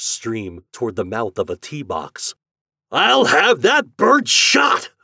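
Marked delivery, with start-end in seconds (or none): 2.9-4.9 high, loud, drawn-out outburst; thundering. A narrator's reading. Store owner threatening to have the bird shot, thundering. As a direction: thunder it out slowly at full force. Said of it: "thundered Mister Richards".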